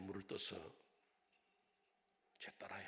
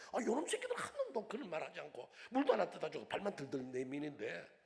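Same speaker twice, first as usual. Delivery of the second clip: laughing mockery; 7 semitones higher, 8 dB louder than usual. Mocking the real disciples.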